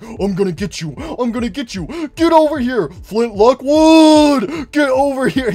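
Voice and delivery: high, loud mock chase yell; building hammed-up shout; chasing Golden Freddy. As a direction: holler after Flint Lockwood. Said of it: "He's like".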